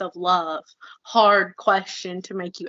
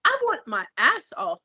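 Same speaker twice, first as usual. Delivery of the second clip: worked-up, incredulous comeback with high jumps; offended, emphatic pushback; indignant retort; 4 semitones higher than usual. Retold or imitated. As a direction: throw it back in disbelief. Indignant retort to envious comments.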